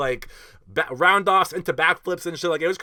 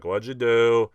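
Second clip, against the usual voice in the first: lightly voiced dad, low-pitched and unbothered; unreacting dad; 5 semitones lower, much slower than usual. Dad asking son about the accident, mildly imitated, unfazed. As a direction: ask it low, like a dad barely reacting. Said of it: "he didn't even, like, react".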